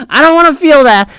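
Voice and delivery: high, hammed-up fake sob; mock crying. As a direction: whine it like a fake wail. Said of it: "repeat with fake cry".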